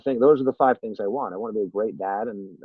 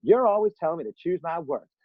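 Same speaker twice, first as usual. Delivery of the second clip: imitated little girl with a Southern twang, pitched high; indignant Southern girl, mock performance; 7 semitones higher than usual. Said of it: "with this great Southern twang".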